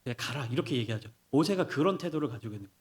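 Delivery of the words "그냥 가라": relenting teacher. Acted. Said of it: "더 무서운 선생님이".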